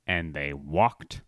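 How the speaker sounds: slow, drawn-out dramatic narration; mock emphatic. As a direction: imitate a friend overemphasizing, pausing for effect. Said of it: "emphasizing your point".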